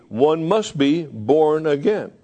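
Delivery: slow, stressed "must"; emphatic. Shown as a demonstration. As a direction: lean on "must", slowly. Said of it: "states emphatically".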